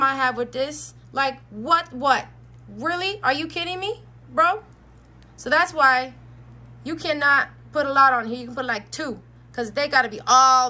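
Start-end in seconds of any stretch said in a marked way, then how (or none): 1.1-4.6 higher, incredulous "are you kidding me"; exasperated disbelief. Real, not acted. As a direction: throw up your hands in disbelief. Exasperated at the bracelet's flaw.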